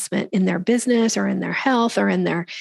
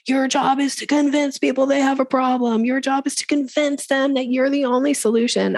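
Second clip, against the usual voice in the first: higher-pitched parroting of sales advice; mock sales dogma; 5 semitones higher than usual. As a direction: recite it like a rule being preached. Mimics pushy sales teaching.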